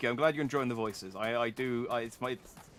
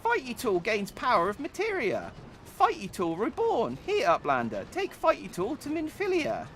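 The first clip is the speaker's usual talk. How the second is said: very high, loud squeaky goblin; 11 semitones higher, 3 dB louder than usual. Acted. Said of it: "attempt my goblin voice".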